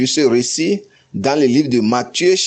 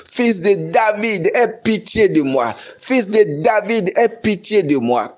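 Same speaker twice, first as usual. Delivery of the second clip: raised pleading cry, a little higher; 4 semitones higher than usual. Retold or imitated. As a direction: call out to be heard, begging. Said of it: "Elle a commencé par crier". (cri de supplication, voix un peu plus haute)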